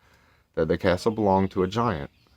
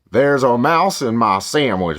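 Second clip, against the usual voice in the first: loud, slow giant's roar, raised in pitch; 5 semitones higher, 9 dB louder than usual. A narrator's reading. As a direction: roar it out slowly like an outraged giant. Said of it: "roared the giant".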